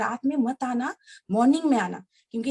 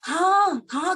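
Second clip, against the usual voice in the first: higher, mildly raised retold cry; imitated loud yes; 4 semitones higher, 3 dB louder, much slower than usual. Father answering daughter's repeated question, imitated loud yes. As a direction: imitate an emphatic, called-out yes. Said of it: "करके जोर जोर से बोल रहे हैं".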